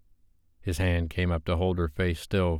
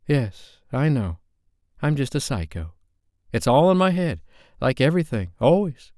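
higher, louder self-mocking rant; bitter outburst; 7 semitones higher, 4 dB louder than usual. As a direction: spit it out sarcastically, pitched up.

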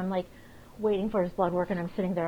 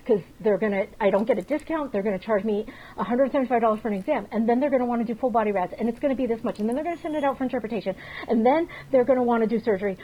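fast, louder panicked rant, half reliving it; retold panic; 4 dB louder, faster than usual. Owner recalling her dog swallowing a treat, fast panicked rant. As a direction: spill it all out in a rush of vet-bill dread. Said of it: "I'm crying. I'm like".

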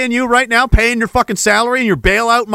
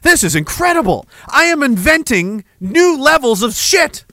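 devil voice. Pretend. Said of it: "The devil is like".

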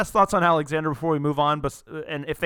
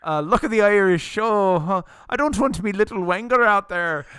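hammed-up Australian accent, higher and louder; a loud, high send-up of an Australian bloke; jokey put-on Australian accent, pitched up and loud; mock Australian accent; 6 semitones higher, 7 dB louder than usual. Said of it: "He's not Australian".

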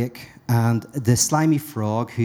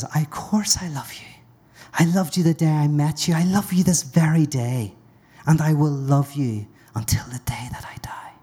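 declaring love aloud; 2 semitones higher than usual. Acted. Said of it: "she says".

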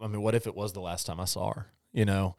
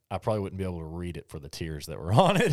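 teary laugh; 5 dB louder, faster than usual. Real, not acted. Emotional laugh at tears.

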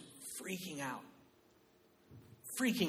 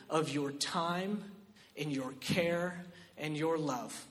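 slow and softer, drawn inward; quiet; 6 dB quieter, slower than usual. Acted. Pastor easing the congregation in, with a slow quiet delivery. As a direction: lay it down gently before the build. Soft line before its loud repeat.

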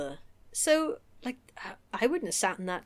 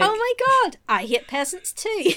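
mock gushing; 9 semitones higher, 4 dB louder than usual. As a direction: squeal it, high and loud. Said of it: "We are so like".

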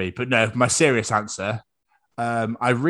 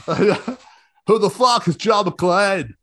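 hammed-up mock German accent, higher; German villain accent; 7 semitones higher, 3 dB louder than usual. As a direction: do Hans Gruber as a jokey German. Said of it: "If I do this accent".

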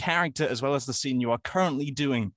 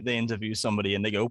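usual speaking voice

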